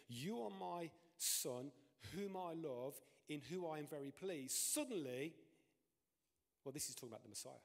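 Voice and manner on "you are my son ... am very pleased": voice of God declaring. Acted. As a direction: announce it like a heavenly voice. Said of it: "this voice going".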